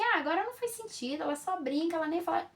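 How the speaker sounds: dismissive parent. Retold or imitated. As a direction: lightly voice a parent brushing it off. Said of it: "quando você achava que".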